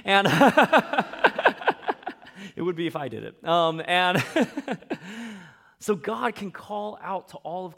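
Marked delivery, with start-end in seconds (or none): 0.3-2.5 loud, high burst of laughter; hearty laugh. Real, not acted. Preacher cracking up at own joke about the accent, hearty laugh. 4.3-5.5 high, loud trailing laugh; amused laugh. Real, not acted. Preacher still amused by own accent joke, laughing.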